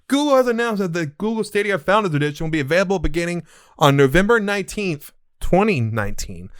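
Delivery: reading out a news item. Real, not acted. Host reading the Google Stadia announcement to listeners, news read. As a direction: read the announcement aloud like a newscaster.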